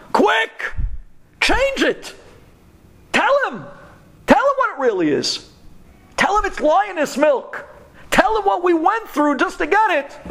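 frantic screaming. Acted. Body parts begging the tongue, frantic screams. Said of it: "They scream to the tongue".

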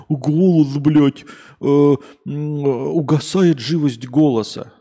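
loud, slow, distorted mockery; mocking quote. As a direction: parrot the comment back scornfully. Передразнивает цитату комментатора. (издевательское передразнивание)

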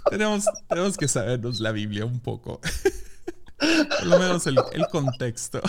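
trying not to laugh. Real, not acted. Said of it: "Ya te perdí".

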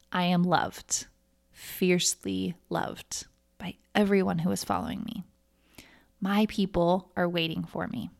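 hushed, unvoiced affirmation; whispered affirmation. Shown as a demonstration. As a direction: whisper it to yourself like a secret truth. Reading affirmations to listeners.

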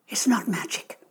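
breathy unvoiced old lady whisper; old woman whispering. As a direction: whisper it like a secret. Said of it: "the old lady whispered".

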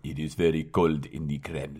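put-on low, deep Russian accent; put-on Russian accent, pitched well down. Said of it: "My turn".

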